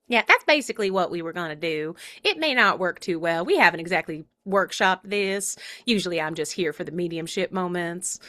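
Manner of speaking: lightly voiced hand puppet; a hint of a Virginia accent; Proxy. Puppet explains the plan to listeners, lightly put-on voice. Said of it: "Proxy is here because she's gonna be asking".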